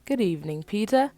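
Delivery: cheerful call, pitch leaping high; happy loud greeting, rising high; happy shout. Acted. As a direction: greet him with a bright call. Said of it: "I shout happily".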